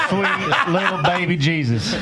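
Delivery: high laughing prayer line; laughing movie quote. Retold or imitated. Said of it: "you guys all know the lines to the same movie".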